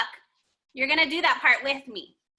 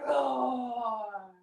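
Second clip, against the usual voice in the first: mock bear roar; 5 semitones lower, 7 dB quieter than usual. Shown as a demonstration. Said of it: "look up like a brown bear".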